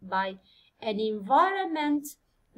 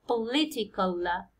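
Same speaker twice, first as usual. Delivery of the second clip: political said slowly, stressed po-LI-tical; 3 semitones lower, much slower than usual. Shown as a demonstration. Teacher showing the stressed syllable, slow po-LI-tical. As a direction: lean on the second syllable of Political. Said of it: "stress يجي على لي".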